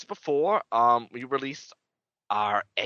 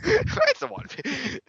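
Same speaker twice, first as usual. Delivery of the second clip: slow, much higher squeaky voice; high squeaky echo; slower than usual. Pretend.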